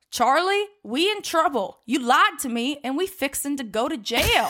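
high, mock-alarmed Southern voice; a hammed-up scared young man; panicked Southern plea. Calvin panicking, quoted.

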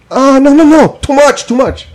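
high, light voice of a cheery dentist; high breezy dentist brushing off the patient's pain; mimicking the dentist. Voicing the dentist.

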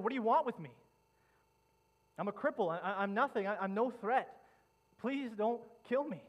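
high, loud pleading cry; fearful cry. Acted. Crippled man crying out to the king's soldiers, loud fearful plea. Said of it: "he cries out".

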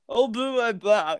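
imitating throwing up; mock retching. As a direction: gag the words out as nonsense. Acting out retching on the stuffing.

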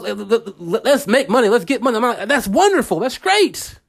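high-pitched hype, climbing to "great"; mock money-hungry enthusiasm. Podcaster mimicking social media money chasers, mock enthusiasm.

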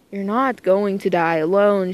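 a touch of a stern big brother. Acted. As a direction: lay down the law kindly but firmly. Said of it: "Shiro's sternly voiced".

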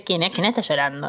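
retold thought, half laughing through it; amused, laughing recall of her own confusion; laughing while quoting. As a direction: let the laugh leak into the question. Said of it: "entonces pensé".

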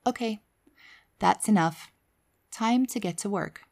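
calm, steady inner voice, firm yet kind; firm but kind. Retold or imitated. Inner voice telling her to stop dancing, firm and kind. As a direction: set a limit gently but without doubt. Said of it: "very strong, very firm, but kind voice".

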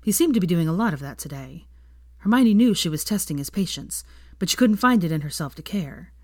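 plain reading voice

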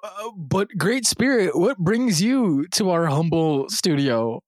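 slow, grand respectful address; reverent host. Acted. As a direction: speak it slowly, with mock reverence.

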